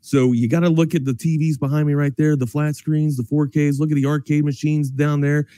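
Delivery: casual radio sponsor plug; conversational sales read; live ad read. Acted. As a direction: pitch the sponsor like a chatty sports host.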